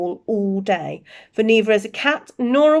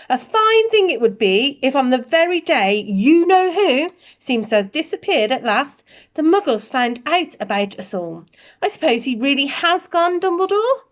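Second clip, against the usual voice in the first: higher, sharp stern witch; McGonagall voice; 6 semitones higher, 4 dB louder than usual. Acted. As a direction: press him for an answer, primly.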